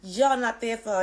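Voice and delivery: loud, fast, firm defense; nurse standing firm. Retold or imitated. Nurse Abby defying the father, loud and fast. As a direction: defend the girl fiercely. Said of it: "She said".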